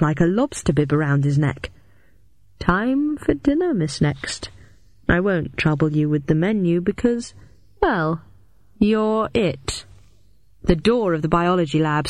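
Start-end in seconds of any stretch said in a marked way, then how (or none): 2.6-9.8 menacing villain. Acted.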